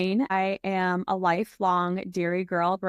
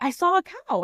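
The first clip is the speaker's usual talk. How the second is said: friends telling her; 11 semitones higher than usual. Retold or imitated. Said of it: "They're like".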